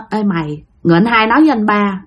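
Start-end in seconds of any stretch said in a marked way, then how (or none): 0.1-0.6 hushed secretive. Acted. Brothers conferring secretly at night.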